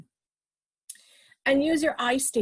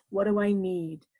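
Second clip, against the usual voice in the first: lower, stress on I in need; calm inner question; 4 semitones lower than usual. Shown as a demonstration. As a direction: ask yourself gently, I stressed. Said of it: "Say to yourself".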